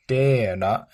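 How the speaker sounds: "hojtera" with the voice falling on the long stressed vowel. Shown as a demonstration. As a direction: let the pitch drop through "hojtera". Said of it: "your voice kind of falls in a falling tone".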